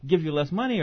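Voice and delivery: high-pitched imitation of a publisher's excuses; imitated publisher. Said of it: "the publisher says".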